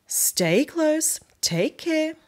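a lightly quacky warning to her ducklings; mother duck quacking. Acted. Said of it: "quacked Alexander's mother".

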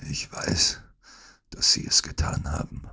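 soft, halting sickbed voice; feeble whisper. Acted. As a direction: accuse him with little strength. Sick Holmes accuses feebly. (schwaches Flüstern)

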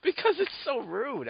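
a mock-offended falsetto over a rude joke; mock prissy indignation. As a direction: play scandalised in a high, drawn-out voice.

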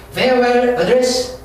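"Farewell address" drawn out very slowly, rising end; slow teacher reading; slow drill. Shown as a demonstration. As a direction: stretch it again with a lift at the end. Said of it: "slow vocabulary drill".

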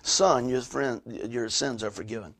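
hushed, unhurried pronouncement of forgiveness; letting it soak in. Retold or imitated. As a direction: let each phrase sink in, dropping away quietly. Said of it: "let that soak in".

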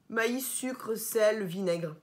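lit "Maïs, sucre" dans un souffle; chuchoté. Real, not acted. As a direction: murmure la liste pour soi. Lit les ingrédients à voix basse. (liste chuchotée)

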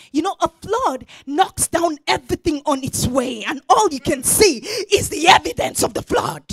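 loud, driving sermon voice; full-force preaching. Acted. Preacher describes the flood to the congregation, loud preaching.

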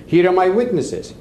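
half-yelled retold protest; retold yelling. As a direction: imitate a man insisting in a quarrel. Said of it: "He's yelling".

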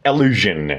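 Allusion as "a-LU-zhen", falling at the end; model pronunciation. Shown as a demonstration. Teacher repeating the new word for learners, careful Allusion. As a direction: say Allusion alone, light A-to-E first vowel.

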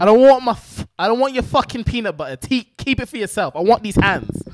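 pugnacious leprechaun in a put-on British accent. Leprechaun turning down peanut butter to fight, British accent. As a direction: pick a fight in mock British. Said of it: "All right, say British leprechaun".

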